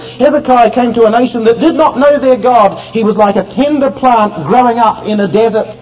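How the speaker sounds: insistent pulpit cadence, clause upon clause; fervent preaching. Real, not acted. Preacher recounting Hezekiah's godless nation to the congregation, fervent. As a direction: build the list with urgent conviction.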